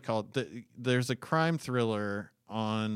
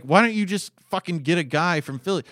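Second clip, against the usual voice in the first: louder, higher, fed-up rhetorical demand; exasperated outburst; 6 semitones higher, 7 dB louder than usual. Retold or imitated. Griping to his cohost about bad casting, a fed-up outburst. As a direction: throw it at the producers like you can't believe it. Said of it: "And I'm like".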